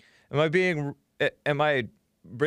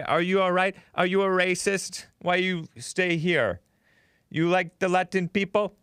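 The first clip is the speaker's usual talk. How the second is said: mock reporter; 5 semitones higher than usual. Quoting the Univision reporter.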